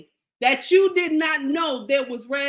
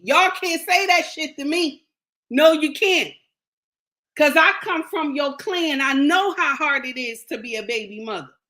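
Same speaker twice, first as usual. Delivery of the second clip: indignant; 2 semitones higher than usual. Real, not acted. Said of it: "I'm getting indignant".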